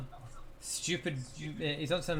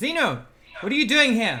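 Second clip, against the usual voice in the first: very loud, high, swooping put-on yell; 7 semitones higher, 12 dB louder than usual. Voicing a character who yells at Zeno: yelling in character. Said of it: "is yelling at, at Zeno".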